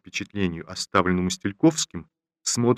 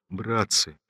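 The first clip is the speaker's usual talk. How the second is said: pleading; 2 semitones higher than usual. Acted. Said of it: "почти упрашивали солдат".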